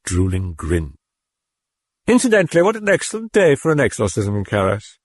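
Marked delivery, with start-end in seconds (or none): 2.1-5.0 high, sly demon voice; mocking demon. A narrator's reading. The demon mocking Karras about the exorcism. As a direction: tease him like a sneering demon.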